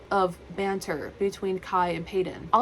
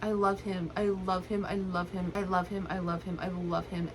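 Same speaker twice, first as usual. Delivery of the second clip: softer and softer, repeating it; fading adoring murmur; 6 dB quieter than usual. Real, not acted. Reader to viewers about Joey, softening repeats. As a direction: let each I love him fall away.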